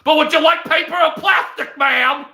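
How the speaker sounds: high, shouted grocery bagger; too-loud bagger voice. Retold or imitated. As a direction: yell it with no volume control. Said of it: "voice modulation problem".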